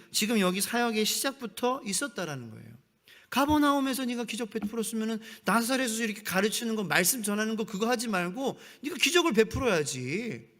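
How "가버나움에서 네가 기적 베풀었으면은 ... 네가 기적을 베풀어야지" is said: condescending taunt. Retold or imitated. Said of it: "뭐, 이런 식으로".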